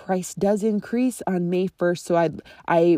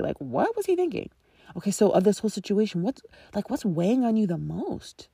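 curious prompting questions; 2 semitones higher than usual. Shown as a demonstration. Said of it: "So saying".

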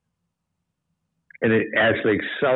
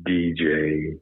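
late night DJ voice; 5 semitones lower, 3 dB quieter, much slower than usual. Shown as a demonstration. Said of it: "late night radio D J voice".

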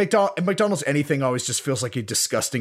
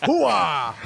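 wolf howl; 5 semitones higher than usual. Shown as a demonstration. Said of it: "give me an example of those".

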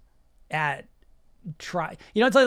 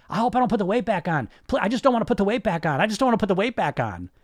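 new mantra; 4 semitones higher, 3 dB louder, faster than usual. Retold or imitated. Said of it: "the new mantra becomes".

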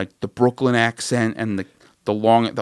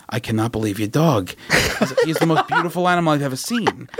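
imitating a burly Brooklyn animal trainer, rising to higher; amazed Brooklyn guy gushing about a dog; Brooklyn accent; 4 semitones higher than usual. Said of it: "fat dude from Brooklyn".

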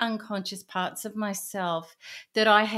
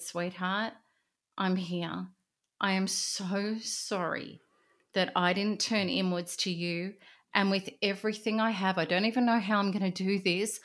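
tender comfort. Retold or imitated. Comforting her broken inner self.

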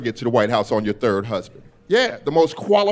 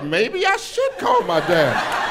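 half-convinced pondering; 4 semitones higher, much slower than usual. Retold or imitated. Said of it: "She said it so confidently, I was like".

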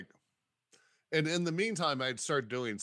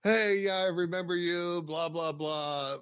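high, louder start, easing down; skimming an email aloud; 5 semitones higher, 3 dB louder than usual. Retold or imitated. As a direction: rattle off the pleasantries in a raised voice. Glossing a reply email aloud.

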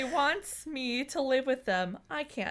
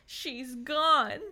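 cracking tearful heartbreak; 4 semitones higher, 4 dB louder, slower than usual. Acted. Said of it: "he bawled".

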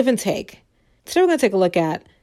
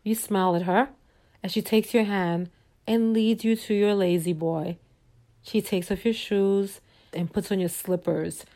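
soft, measured storyteller voice; storytelling narration; 5 dB quieter than usual. A narrator's reading. Narrator leading listeners into a fantasy evening, soft storytelling. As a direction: lay out the scene gently and evenly.

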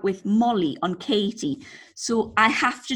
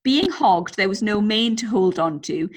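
lively, measured story narration; story read-aloud. A narrator's reading. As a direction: read the anecdote out to entertain. Reads out a listener's story.

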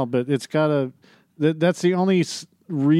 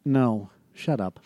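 stifled giggles; 4 semitones lower, slower than usual. Real, not acted. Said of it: "I'm trying to keep a straight face".

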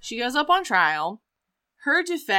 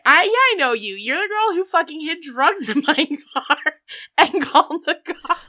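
mock angry husband; 6 semitones higher, 4 dB louder than usual. Husband's angry retort, retold.

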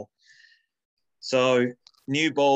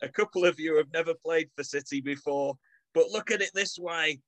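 mock team talk; 5 semitones higher than usual. Reading a halftime team talk.

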